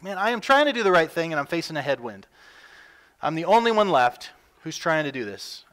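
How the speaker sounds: a touch of a weary fisherman complaining; exasperated disciple. Retold or imitated. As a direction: sigh it out like a worn-out rower. Disciples voiced straining in boats.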